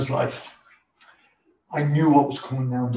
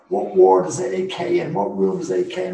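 raised voice calling down the hospital corridor; calling out a name; 3 semitones higher, 6 dB louder than usual. Retold or imitated. Visitor calling through the ward for him, loud. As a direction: call out loudly, searching for him. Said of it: "I could hear someone shouting my name".

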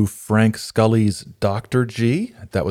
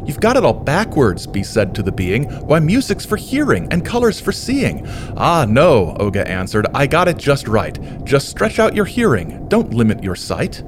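croaking toad; 3 semitones higher than usual. Acted. Reads rhyming picture book aloud.

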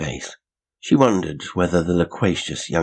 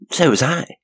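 high, quick eager reply; eager girl; 11 semitones higher, 5 dB louder than usual. A narrator's reading. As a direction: jump in eagerly. Janet eagerly joins in.

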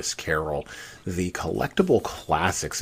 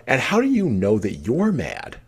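higher, louder challenge; questioning Alice; 8 semitones higher, 5 dB louder than usual. A narrator's reading. Alice challenging the cat's logic, questioning. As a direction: press the question with a lifted voice.

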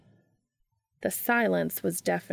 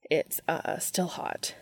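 quiet; 2 semitones lower, 3 dB quieter, slower than usual. Acted. Hissing after burning his hand.

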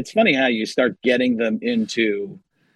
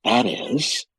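slow, halting actor impression, softer; Paul Giamatti; 4 dB quieter, slower than usual. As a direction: weigh each phrase with long, deliberate pauses. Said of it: "Paul Giamatti is, uh, is one of my favorites".

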